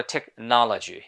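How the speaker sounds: American "টেকনোলজি", open NAH in the second syllable; American pronunciation. Shown as a demonstration. Teacher introduces the other version, American accent. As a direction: model an American accent, unrounded stressed vowel. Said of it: "American people এটাকে বলে".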